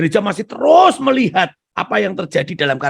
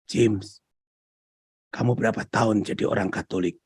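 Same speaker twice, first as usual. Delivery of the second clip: gentle voice of Jesus; 8 semitones lower, 6 dB quieter than usual. Retold or imitated.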